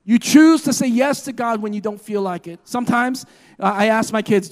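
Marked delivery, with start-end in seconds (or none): 0.0-2.6 louder, insistent repeat. Shown as a demonstration. Preacher repeating to the church, louder and insistent. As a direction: hit choose hard and louder. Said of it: "I mean it".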